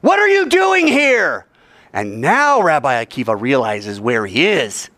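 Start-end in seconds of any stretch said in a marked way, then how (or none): 0.0-1.5 high, loud, slow drawn-out challenge; booming voice. Acted. Sentry challenges the rabbi from the darkness, booming. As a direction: boom it out slowly from the darkness. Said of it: "Second time".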